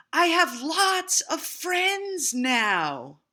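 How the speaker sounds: high, loud, slow joyful call; very loudly. A narrator's reading. Happy Little Beaver calls out loudly across the pond. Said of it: "said it again very loudly".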